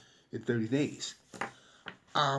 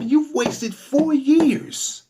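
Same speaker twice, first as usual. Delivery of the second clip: drawn out; 10 semitones higher, 6 dB louder, much slower than usual. Retold or imitated. Stressing wasted years.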